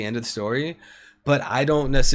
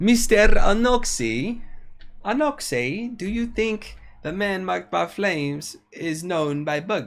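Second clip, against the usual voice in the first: fake mashup of Italian, British and Indian accents; 6 semitones higher than usual. In character, questioning Mister Anoxi, in a wannabe Italian-British accent. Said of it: "I don't even know what kind of fucking accent that was".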